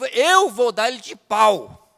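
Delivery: loud, slow, hard-edged threat; hard and forceful, imitating an angry man; harsh retold threat. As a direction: imitate a hostile man threatening, hitting each word hard. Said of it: "Falou assim, duro".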